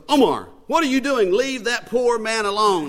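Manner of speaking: high, loud scolding mother; imitated woman's yell. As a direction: call out sharply, pitched well up. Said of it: "I hear this woman yell".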